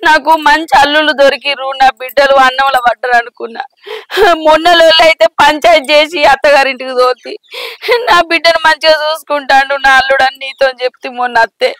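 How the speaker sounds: plaintive crying account; weeping mother's complaint; tearful lament. Acted. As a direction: pour out the grievance between sobs. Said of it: "ఏం పనికి ఎడుతున్నావ్".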